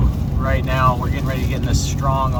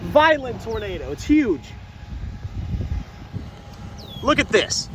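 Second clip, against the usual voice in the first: much higher, breathless with awe; awestruck excitement; 9 semitones higher than usual. Real, not acted. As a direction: voice leaping up in real amazement. Violent tornado right ahead.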